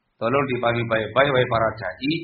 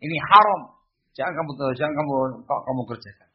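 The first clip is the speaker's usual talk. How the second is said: firm, raised declaration; much faster than usual. Shown as a demonstration. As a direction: pronounce it forbidden with firm emphasis. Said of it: "tegas begitu".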